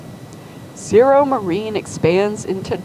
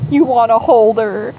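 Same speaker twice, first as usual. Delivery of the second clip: eager offer; 3 semitones higher, 6 dB louder than usual. Retold or imitated. Mother offering baby to uncle.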